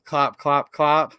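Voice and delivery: even, separated hoof clops; horse hooves. Acted. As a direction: clop out each step. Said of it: "He can sound like horse feet".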